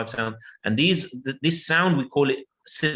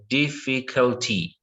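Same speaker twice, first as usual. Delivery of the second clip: slow model word; slower than usual. Shown as a demonstration. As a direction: say Difficulty slowly and clearly. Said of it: "what about this word here".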